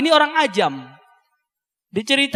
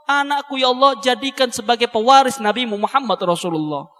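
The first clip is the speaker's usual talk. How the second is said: imitating a tearful prayer; 4 semitones higher than usual. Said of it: "nangis lagi, nangis".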